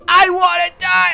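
loud wail. Real, not acted. Overwhelmed by creepy dance.

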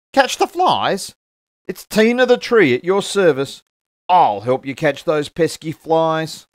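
high, loud eager offer; the tree keen to catch flies; eager helper. Acted. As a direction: jump at the chance to help. Tina eagerly offers help.

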